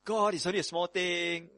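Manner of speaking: lightly voiced high wheedling excuse; a hint of a believer shrugging off sin; mock pleading believer. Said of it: "We do this all the time".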